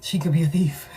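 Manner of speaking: breathy conspiratorial whisper; hushed aside to the viewer. Real, not acted. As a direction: lean in and whisper it like a secret. Whispered warning about the boss.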